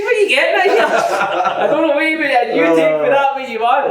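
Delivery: very high, loud comeback; hammed-up squealed retort; mock indignation. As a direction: protest in a high, loud voice through laughter. Acted comeback to teammate's teasing.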